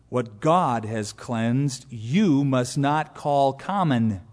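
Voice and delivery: very slow, measured correction; mild but firm rebuke. Acted. God's voice correcting Peter, slow mild firm rebuke. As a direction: correct him gently but without give. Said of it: "A mild, albeit a firm rebuke".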